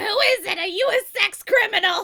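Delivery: high, very loud shriek at full volume. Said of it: "I can't do it right now".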